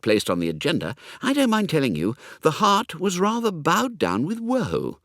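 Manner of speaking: lightly voiced young toff, confiding and cheerful; chatty young Hugo.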